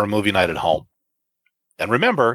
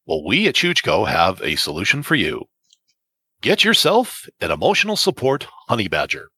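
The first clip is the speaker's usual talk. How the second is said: lower, smooth commercial announcer; 4 semitones lower than usual. Pretend. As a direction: sell it like a TV ad. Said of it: "I've gotta do this one in my T V announcer voice".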